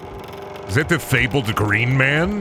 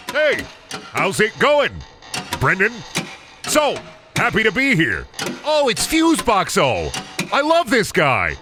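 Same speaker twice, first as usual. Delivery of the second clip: squeaky high cartoon voice, a lot higher; high goofy character; 8 semitones higher than usual. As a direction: play a silly bubbly fuse box character. Voicing the Fuseboxo character.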